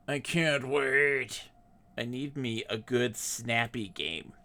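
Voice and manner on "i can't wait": very slow, stretching every word; slow drawn out. Shown as a demonstration. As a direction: drag it out, savoring it.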